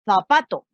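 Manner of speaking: zapato with the z like a th; Spanish z sound. Shown as a demonstration. Teacher shows the th sound through zapato. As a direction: stress the z in zapato. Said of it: "como si dijera".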